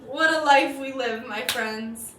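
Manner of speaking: joyful exclamation. Real, not acted.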